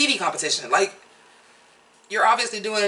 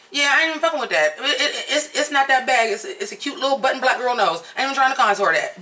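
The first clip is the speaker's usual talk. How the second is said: laughing; 4 semitones higher than usual. Retold or imitated. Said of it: "I'm like".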